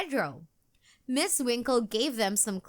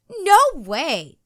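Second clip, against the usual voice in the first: higher and much louder, firm denial; insisting; 6 semitones higher, 10 dB louder than usual. A narrator's reading. Host girl firmly denying monsters exist, insistent. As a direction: shut the idea down firmly. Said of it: "insisted Katie".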